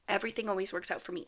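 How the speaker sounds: quick repeat of the affirmation, rattled off; fast repeat. Shown as a demonstration. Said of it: "My favorite thing, affirmation".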